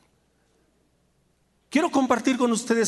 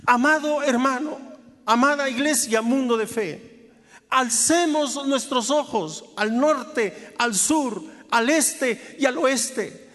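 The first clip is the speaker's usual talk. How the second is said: impassioned preaching; 8 semitones higher, 4 dB louder than usual. Acted. Pastor urging the church Mundo de Fe, fervent preaching. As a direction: rouse the congregation to lift their eyes. Rising sermon exhortation.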